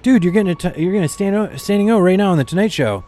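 hyped-up host breaking news; mock excited host; excited Jimmy. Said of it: "he was like".

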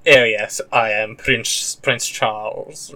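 slow, drawn-out mock posh British accent; lightly hammed-up upper-class English accent, stretched slowly; posh Prince Charles accent. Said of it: "think of a British accent as either being".

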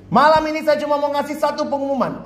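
high, pompous proclamation; grand announcement. Acted. Boarder proclaiming to residents at midnight, pompous and high. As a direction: declare it like a self-important herald.

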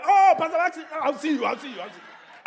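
high, lightly hammed-up churchgoer voice; a hint of a breezy church member; mock congregant farewell. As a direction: tease the casual goodbye. Mocks congregant saying goodbye.

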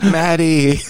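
calling out. Retold or imitated. Drunk friend reaching out to Maddie, calling out. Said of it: "calling his name".

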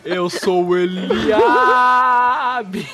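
slowed, warped voice changer; warped memory voice, slowed down; distorted voice. Pretend. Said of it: "Começa a ficar a voz distorcida".

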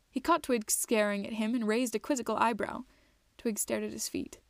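measured storybook narrator; unhurried audiobook-style telling; story narration. A narrator's reading. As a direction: read it out evenly, phrase by phrase. Reads the story aloud.

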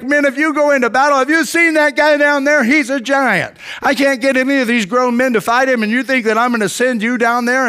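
high-pitched, disbelieving king; lightly acted incredulous protest; incredulous objection. King Saul talks David out of fighting, incredulous objection.

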